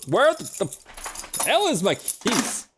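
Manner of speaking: slow, high, drawn-out where the hell; hunting for lost keys, baffled and drawn out; exasperated key search. Retold or imitated. Retelling coming home to missing keys, slow and exasperated. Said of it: "I'm just like".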